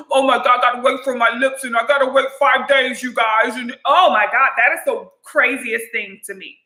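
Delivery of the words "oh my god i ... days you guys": mock swollen-lip talk. Shown as a demonstration. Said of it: "talking like this".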